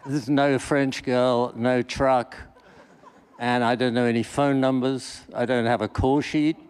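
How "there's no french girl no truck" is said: laughing. Real, not acted. Laughing at own mishap.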